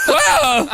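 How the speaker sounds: yelped tennis grunt, very high; high whoa grunt. Shown as a demonstration. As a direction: let out a long high grunt.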